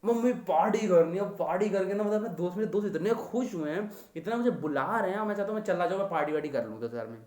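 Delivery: put-on a light, pleading kid's voice asking for party money; pleading son. Son begging his mother for party money, lightly voiced. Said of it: "बेटा दस हज़ार कहाँ गए".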